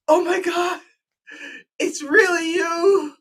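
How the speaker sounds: very high, gushing fan squeal. Retold or imitated. Fan meeting him at the con, high squeal. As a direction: shriek like a starstruck fan.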